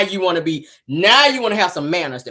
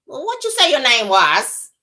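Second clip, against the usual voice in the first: slow, higher drawn-out mock voice; Simon's slow talk; 5 semitones higher than usual. Mocking Simon greeting the guest, slow and drawn. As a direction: drag each word out lazily. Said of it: "that's how he talk".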